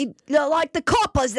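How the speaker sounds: hammed-up Irish copper talk; Irish accent. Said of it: "I love when you do an accent".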